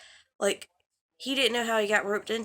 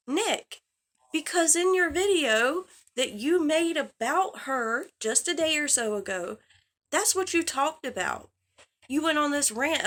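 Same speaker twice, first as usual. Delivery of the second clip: heated call-out; 4 semitones higher than usual. Real, not acted. Confronting Nick about his video.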